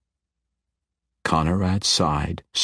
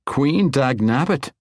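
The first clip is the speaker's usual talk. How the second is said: musing; 8 semitones higher, 3 dB louder than usual. Acted. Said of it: "mused aloud".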